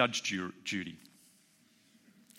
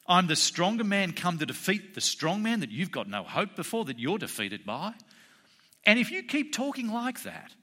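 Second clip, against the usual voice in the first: raised pitch, emphatic rebuke; restrained authority; 6 semitones higher than usual. Retold or imitated. Jesus rebuking a religious leader from Jerusalem, restrained authority. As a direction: voice a touch of divine indignation, held in check. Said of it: "displaying that immense authority and power".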